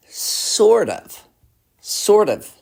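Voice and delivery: high-pitched, drawn-out hedge; hedging. Real, not acted. Answering own question with doubt.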